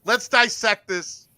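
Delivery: slow down to dissect it with put-on gravity. Host mimics a channel analyst dissecting a throw, mock-earnest. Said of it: "Is that good T D impersonation?".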